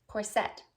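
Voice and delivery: each "corset" said cor-SET; "corset" stressed on SET; stress on second syllable. Shown as a demonstration. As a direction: put the weight on the end of "corset". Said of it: "emphasis or the accent on the second syllable".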